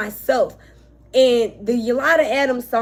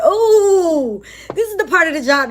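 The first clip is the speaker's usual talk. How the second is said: laughing through tears; 6 semitones higher, 4 dB louder than usual. Real, not acted. Tearful reader laughs it off.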